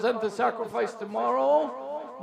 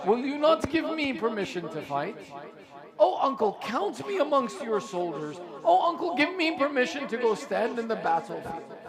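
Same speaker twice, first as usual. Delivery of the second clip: boy's plea retold with rising appeals; lightly voiced imploring nephew; pleading complaint; 2 semitones higher than usual. Young nephew begs his uncle for permission to fight, pleading complaint.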